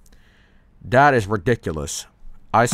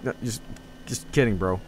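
softer, hesitant retold excuse; sheepish backing down; 5 dB quieter than usual. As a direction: act out a meek little retreat. Friend backing down in story.

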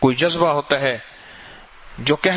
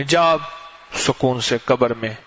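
put-on old mother's farewell; 5 semitones lower, slower than usual. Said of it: "کہنے لگی، بیٹا".

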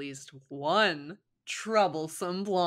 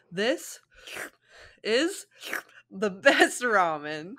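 louder, slow, rising awe; Naruto gushing; 3 semitones higher, 6 dB louder, much slower than usual. Acted. Naruto praises ramen, loud slow gushing. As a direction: savour each word over the ramen.

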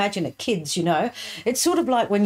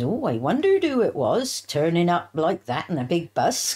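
put-on grandmother's lilting Dorset accent; swooping Dorset country accent. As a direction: lightly imitate a Dorset grandmother. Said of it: "that's how they speak in Dorset".

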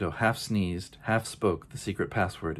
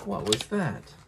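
much higher, squeaky startled question; 11 semitones higher, slower than usual. Acted. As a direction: jump at the sight, high-pitched. Kitten startled by mirror.

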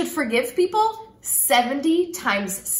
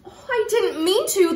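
dismayed cry; 6 semitones higher than usual. Acted. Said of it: "the girl cried".

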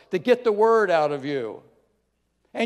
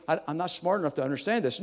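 mock self-doubt; 3 semitones lower, 5 dB quieter, faster than usual. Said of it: "it doesn't mean".

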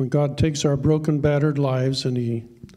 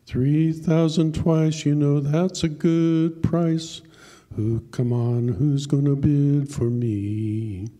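auctioneer calling; 2 semitones higher, slower than usual. Acted. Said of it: "And then he cried".

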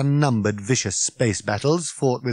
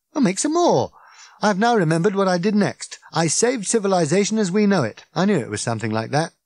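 higher, pleased Ford voice; Ford, triumphant; 8 semitones higher, 3 dB louder than usual. Acted. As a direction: crow about saving civilization.

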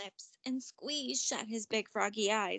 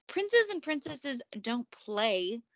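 slow, haughty scoff; slower than usual. Acted. Frog scoffing at Ella about play, slow and haughty. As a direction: dismiss the idea with disdain. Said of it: "scoffed the frog".

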